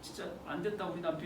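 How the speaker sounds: soft, low acted sympathy; gently pitying murmur; consoling wife. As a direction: comfort a pitiful husband, hushed. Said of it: "안아주고".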